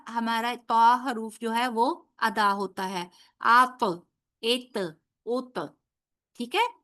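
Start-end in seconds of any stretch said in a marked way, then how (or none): 3.4-5.6 "ات" ends with a bouncing echo of ta; qalqala demo. Shown as a demonstration. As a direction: bounce the final ta in "ات" and "اوت". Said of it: "کیسے ادا ہوگا؟".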